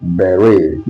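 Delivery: "Beret" repeated BEH-ray, t silent; "Beret" ending on an ay glide; correct beret. Shown as a demonstration. Teacher repeating "Beret" for the class. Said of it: "What did I say?".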